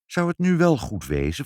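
a touch of jittery doubt; nervous. A narrator's reading. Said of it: "vroeg vader zenuwachtig".

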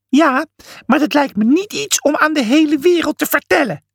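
high sharp snap; snapping. A narrator's reading. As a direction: snap at him. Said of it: "snauwde Pliny".

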